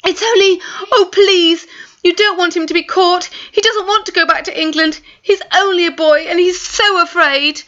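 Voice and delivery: high, tearful begging; tearful pleading. Acted. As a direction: plead through tears. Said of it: "Real tears came to Maya's eyes".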